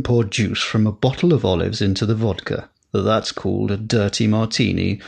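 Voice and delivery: lightly put-on suave film-star voice; amateur impression of a debonair actor; Roger Moore. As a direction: read it out as a badly imitated screen star. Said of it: "That was the worst Roger Moore impression ever".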